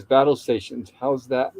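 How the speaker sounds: a weak little attempt at an order; wimpy voice. Gilligan attempting Skipper's command, mildly wimpy voice. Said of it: "in a wimpy voice".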